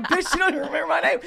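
high, fast, laughing put-on voice; mock offended guy. Voicing the forgotten ex, laughing mock offense. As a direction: play him indignant through laughter. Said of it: "He's like".

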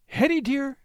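weary sigh on the name. Acted. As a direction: breathe it out tiredly. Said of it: "sighed Cecilia".

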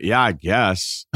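slow, reluctant concession; grudging admission. Retold or imitated. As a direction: concede it slowly, giving as little as possible. Retells his own grudging admission.

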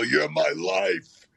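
high, slow, overdone adoration; mother gushing to her idol, high and slow; gushing mom. Retold or imitated. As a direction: stretch it out like a starstruck fan.

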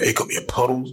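mildly forceful imitated cat call. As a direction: call the cat with a touch of toughness. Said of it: "Be more aggressive".

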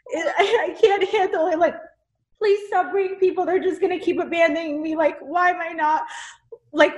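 high, pleading retelling of a prayer through tears; retold tearful prayer. Retelling her prayer to God to her friend, high and teary. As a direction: replay the desperate prayer, voice lifted and half crying. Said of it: "ugly crying".

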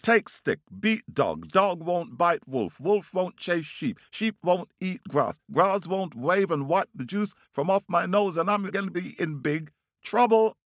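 very high, worked-up bird voice; calling out. A narrator's reading. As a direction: rattle off the demands in a high call. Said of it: "he calls out to the man".

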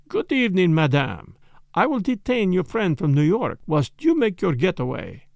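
put-on lightly accented, polite detective; courteous, measured foreign gentleman, lightly voiced; Poirot. Detective soothing a startled wife, lightly voiced courtesy.

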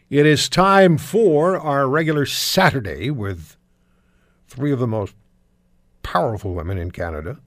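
like a beer commercial voiceover; beer ad pitchman. Real, not acted. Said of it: "I sound like that beer commercial guy".

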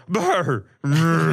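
lips buzzing brr; brr noise. Retold or imitated. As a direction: buzz the lips like a horse. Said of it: "I literally went".

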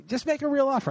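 amused disbelief, laughing as he repeats it. Real, not acted. Laughs while repeating his reply.

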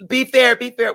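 put-on high squeaky little girl voice; imitating a little girl. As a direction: mimic a small girl pleading. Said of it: "little Asian girl running around talking about".

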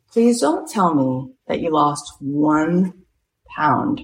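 slow, deliberate retold warning; measured mock-stern phone voice; grave warning. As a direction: space the words out as a mild threat. Retells director's stern warning by phone.

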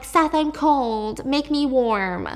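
slow, drawn-out mock seductive plea; sultry plea. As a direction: slowly coax him like a needy lover. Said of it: "And she's all like".

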